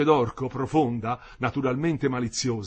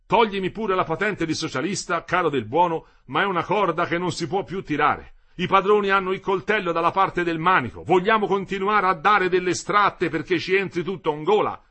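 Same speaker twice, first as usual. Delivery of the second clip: high, raised-voice complaint; insistent, pitched-up argument; heated protest; 6 semitones higher, 5 dB louder than usual. A narrator's reading. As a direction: plead the case loudly to the leader. Worker protests to the leader.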